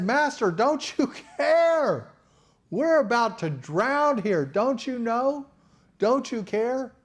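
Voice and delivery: high, slow panicked cry of the disciples; panicked plea. Acted. Disciples beg the sleeping Jesus, panicked. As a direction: plead like men about to drown.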